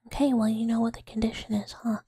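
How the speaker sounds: pressing, play-threatening whisper; insistent stage whisper; mock menace. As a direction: lean on them with a pretend warning. Acted threat to listener.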